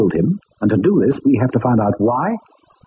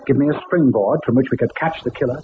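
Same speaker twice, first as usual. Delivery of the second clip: measured inner-monologue narration over music; story narration. A narrator's reading. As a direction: tell it like a detective looking back on the case.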